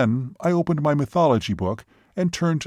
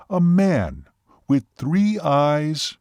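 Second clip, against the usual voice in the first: high, stretched-out disbelieving question; incredulous; 4 semitones higher, 3 dB louder, much slower than usual. Acted. Waitress questions the Seminole's claim, incredulous. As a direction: question it slowly in amazement.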